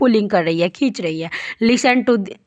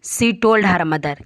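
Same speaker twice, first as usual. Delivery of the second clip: each word read slowly and clearly for the class; slow reading aloud; 4 semitones lower, much slower than usual. Shown as a demonstration. Teacher reading a story sentence to pupils, slow and clear. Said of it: "किसको बोला?".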